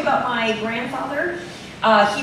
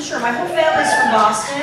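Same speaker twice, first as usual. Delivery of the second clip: ordinary delivery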